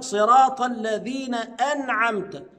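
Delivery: صراط الذين recited slow, then أنعمت; recitation. Shown as a demonstration. Teacher recites the verse slowly for the class. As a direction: chant it out, measured. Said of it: "هنا همزة قطع".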